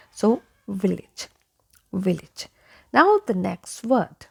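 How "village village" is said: "village" as VIL-ij, short I twice; correct "village". Shown as a demonstration. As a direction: say "village" with -age as -ij. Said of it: "letter A also has I sound".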